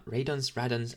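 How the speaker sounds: "radons, radons" tried two different ways; unsure pronunciation. Acted. Demon unsure how to pronounce the word, testing "radons, radons". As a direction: sound out "radons, radons", changing the first vowel. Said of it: "how do you even pronounce that?".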